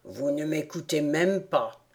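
a small creature complaining it's been interrupted; low, grumbling rat; peeved rat. A narrator's reading. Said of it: "s'interrompit ici le rat".

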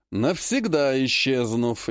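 "Навсегда исчезнув" drawn out slowly for emphasis; emphatic. A narrator's reading. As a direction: underline "Навсегда исчезнув" with a slow delivery. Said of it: "ещё раз подчеркну". («Навсегда исчезнув» медленно, с нажимом)

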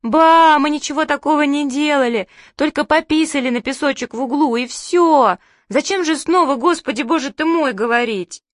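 put-on high, wailing childish protest; hysterical children. A narrator's reading. Children protest to Grandma they did nothing, hysterical. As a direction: plead innocence in a shrill panic. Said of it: "Зашлись мы в истерике".

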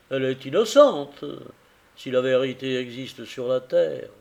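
earnest husband pouring out his regret; a man blaming himself for his blindness; grieving carrier. Acted. Carrier tells Tackleton of his wife's sorrow, earnest and grieving.

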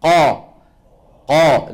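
قا pressed up to the palate, full and resonant; teacher drilling a heavy قا; heavy qaf demo. Shown as a demonstration. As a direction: push قا up against the roof of the mouth. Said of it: "لما بتضغط".

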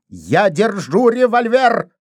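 high, slowed shouts; excited shouting. A narrator's reading. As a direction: yell warnings about the gun. Shouting in the struggle.

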